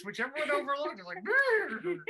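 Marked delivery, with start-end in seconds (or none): 1.2-2.0 lip-trilled horse snort. Acted. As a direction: blow a horse snort through the lips. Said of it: "my impression of a horse".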